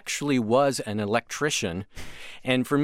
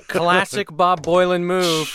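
teasing laugh, higher and louder; laughing tease; 7 semitones higher, 6 dB louder, slower than usual. Real, not acted.

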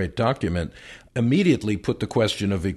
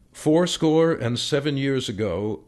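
reading aloud plainly. Shown as a demonstration. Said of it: "Do it like you're talking".

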